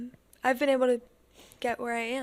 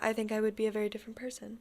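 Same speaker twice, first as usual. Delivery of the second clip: whisper; 7 dB quieter, faster than usual. Real, not acted. Sincere confession, whispered.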